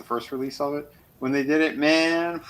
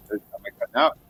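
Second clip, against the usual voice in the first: muffled, like talking underwater; bad mic, voice drowned and muffled; underwater sound; much faster than usual. Real, not acted. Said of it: "you sound like you're underwater".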